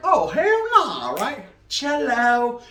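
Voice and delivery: high, slow hyped-up exclamation; excited DJ entrance. Retold or imitated. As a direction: burst in hyped, drawn out high. DJ brother bursting in.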